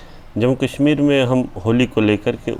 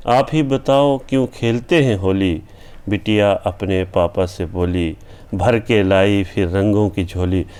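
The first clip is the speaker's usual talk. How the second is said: put-on rhythmic, sing-song poem reading with the girl's lines lifted; poem recitation. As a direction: recite the children's poem with gentle, swinging rhythm. (भावपूर्ण कविता पाठ)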